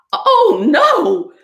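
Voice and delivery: high, loud cry of alarm; screaming piglet. Acted. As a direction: wail it in piglet panic. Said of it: "screamed the piglet".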